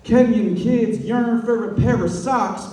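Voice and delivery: rhythmic slam poetry delivery; punchy, lilting poetry cadence; spoken-word poem. Acted. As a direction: perform it as verse, leaning on every rhyme.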